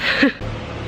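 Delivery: winded little laugh; breathless laugh. Real, not acted. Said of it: "I'm out of breath".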